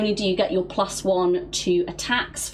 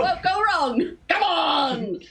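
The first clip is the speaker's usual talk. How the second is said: gaslighting reassurance; 8 semitones higher than usual. Acted. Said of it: "gaslighting him into feeling better".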